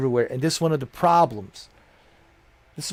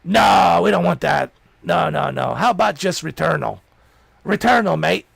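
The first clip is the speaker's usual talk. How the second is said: mock British exec; 4 semitones higher, 4 dB louder than usual. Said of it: "Jim Ryan's like".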